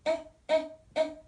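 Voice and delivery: "에, 에, 에" as short separate vowels; sound demonstration. Shown as a demonstration. Teacher shows the vowel sound of M, separated repetitions. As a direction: repeat the isolated "에" that opens the letter M. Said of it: "소리가".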